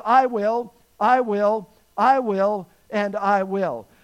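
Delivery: each "I will" hit firmly and separately; stress on I WILL. Retold or imitated. Preacher quoting God's promise to the congregation, each "I will" emphatic. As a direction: punch "I will" loud, pausing after each one.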